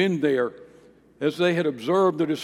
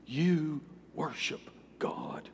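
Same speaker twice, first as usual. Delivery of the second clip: whisper; 8 dB quieter, slower than usual. Acted. Angel's shocked rebuke ends.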